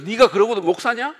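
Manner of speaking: mock angry rebuke. Senior pastor rebuking a district pastor, mock angry. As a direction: demand it like an outraged senior pastor. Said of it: "이렇게 말한대요".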